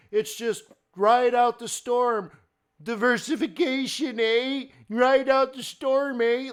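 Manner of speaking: high, loud, slowed mock advisor voice; mocking money manager. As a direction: parody a fund manager brushing off clients' losses. Mocking managers calling their clients.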